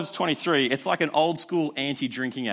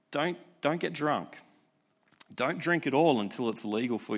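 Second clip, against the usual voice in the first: sincere plea; 3 dB quieter than usual. Real, not acted. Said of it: "I wanna say this".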